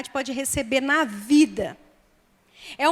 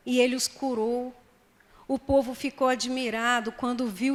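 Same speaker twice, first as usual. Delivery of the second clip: measured, softer Bible reading; scripture reading; 2 semitones lower, 4 dB quieter than usual. Acted. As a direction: read the passage out evenly and quietly. Reads Bible passage aloud.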